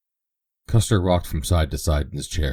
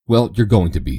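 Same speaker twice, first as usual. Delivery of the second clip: proud; 4 semitones higher, 6 dB louder than usual. A narrator's reading. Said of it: "said the girl proudly".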